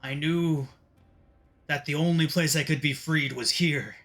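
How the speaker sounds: lightly voiced captive demon, measured; deliberate, grudging oath from a villain; bargaining villain.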